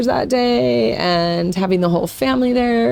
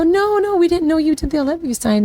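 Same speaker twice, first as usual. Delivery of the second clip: much higher, fast, caught off guard; surprised parents; 10 semitones higher, faster than usual. Retold or imitated. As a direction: blurt it out, amazed you missed it. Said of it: "and we go".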